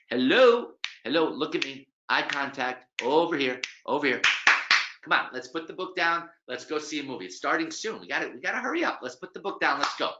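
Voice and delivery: high, loud, insistent hello; pushy attention grab. Retold or imitated. Pushy stranger demanding the reader drop the book, loud and insistent. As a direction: demand eye contact, hurry them along.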